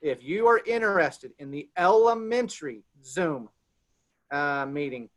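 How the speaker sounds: measured, spaced-out announcement; deliberate repetition. Real, not acted. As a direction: repeat it carefully so everyone catches it. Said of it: "I'm gonna repeat myself".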